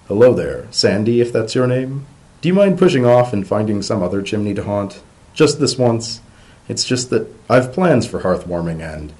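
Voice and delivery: calling up chimney. Acted.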